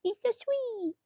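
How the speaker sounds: high, slow whiny protest; mock pleading. Wife answers her husband about kissing the dog, high mock plea. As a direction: plead like you can't help it. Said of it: "I'm like".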